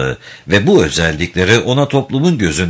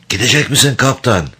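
rasping voice; 4 semitones higher than usual. Acted. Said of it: "kulak tırmalayan hırıltılı bir sesle".

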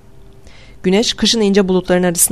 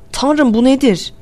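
mildly alarmed question, higher and drawn out; trembling voice; 6 semitones higher, slower than usual. A narrator's reading. Norton questions what the fog is, voice trembling. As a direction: ask it slowly with a touch of dread. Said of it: "Sesi titriyordu".

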